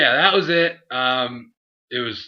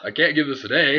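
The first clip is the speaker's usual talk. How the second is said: a lightly voiced stern professor, slightly higher and louder; hint of a teacher handing down a grade; mild mock professor turning the paper down; professor's verdict; 4 semitones higher, 5 dB louder than usual. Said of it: "And he's just like".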